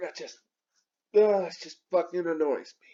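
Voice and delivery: unvoiced muttered complaint under breath; whispered annoyance. Real, not acted. Vlogger to camera, whispered irritation. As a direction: grumble it under your breath.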